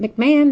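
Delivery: McMahon said "mick-MAN", rising pitch; alternative pronunciation. Shown as a demonstration. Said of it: "I always say it wrong".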